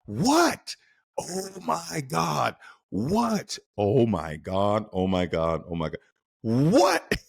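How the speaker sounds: high-pitched, desperate mock pleading for the news; hammed-up panic, pitch leaping up on each what; frantic back-and-forth. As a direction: act out begging someone to just tell you. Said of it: "And you're like".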